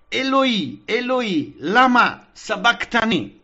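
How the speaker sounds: Jesus crying out loud from the cross. Acted. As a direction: call out the words as Jesus did on the cross. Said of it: "Gesù gridò con gran voce".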